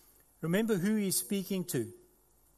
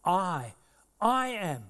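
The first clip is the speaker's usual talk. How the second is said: louder, emphatic I am; declaring; 4 dB louder, much slower than usual. Acted. Preacher voicing Jesus answering the grumblers, emphatic. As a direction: plant it firmly. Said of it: "standing and declaring".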